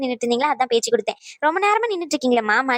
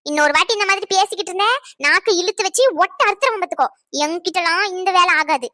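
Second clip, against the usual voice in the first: threatening; 3 semitones higher than usual. Acted. Threat in the quarrel.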